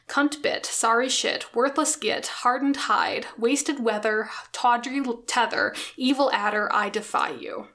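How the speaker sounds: a bard trading barbs with a rival poet, mildly performed; poem reading. Acted. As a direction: read the insults out like a bard trading barbs, only lightly performed. Reads an insult poem aloud.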